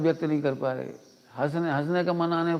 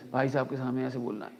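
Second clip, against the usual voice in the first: mock hushed instruction; 4 semitones lower, 7 dB quieter than usual. Mimicking rehearsed speech.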